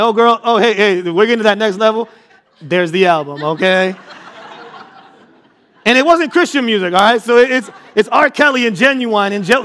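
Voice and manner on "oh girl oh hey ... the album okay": laughing smooth talk. Retold or imitated. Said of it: "I'm like".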